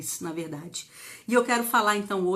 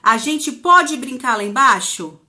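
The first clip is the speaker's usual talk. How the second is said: imitating a child asking; 3 semitones higher, 8 dB louder, slower than usual. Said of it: "elas falam assim".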